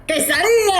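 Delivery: high, exclaimed Mexican Spanish pronunciation; exaggerated Mexican accent. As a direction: sing out the word in a showy Mexican accent. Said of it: "they're gonna think I'm Mexican".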